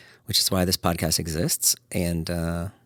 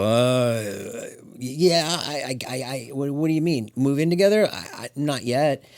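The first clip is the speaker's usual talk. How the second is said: put-on higher, stammering panicked boyfriend; flustered guy; 4 semitones higher than usual. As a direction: stumble through it like a cornered guy. Voicing flustered guy answering.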